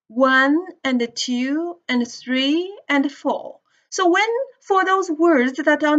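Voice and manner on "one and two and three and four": slow, with one, two, three, four on the beat and each "and" squeezed weak between them; a teacher showing stress-timed rhythm, "and" reduced between the beats. Shown as a demonstration. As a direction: keep the beat on the numbers and slip each "and" in quick and weak. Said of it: "they should be read faster and connected".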